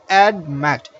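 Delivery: "admit" with the second syllable stressed; stress on last syllable. Shown as a demonstration. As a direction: say "admit" slowly split, landing on the end. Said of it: "the stress falls on the last syllable".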